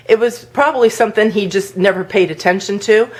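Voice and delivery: ordinary delivery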